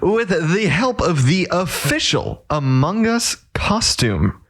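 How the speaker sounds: slow, high salesman pitch; hard sell ad. Pretend. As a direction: sell it like a TV commercial. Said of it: "I don't know why I'm reading this like an ad".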